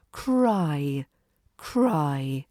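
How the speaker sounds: "Cry" with a full, gliding diphthong; strong diphthong. Shown as a demonstration. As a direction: glide the vowel in "Cry" wide and long. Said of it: "dramatic with a strong diphthong".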